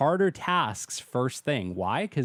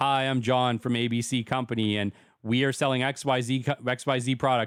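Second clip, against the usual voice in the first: dull, lifeless, flat, boring monotone drone. Showing a phone message nobody would call back, in a flat boring monotone. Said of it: "very boring, monotone voice like".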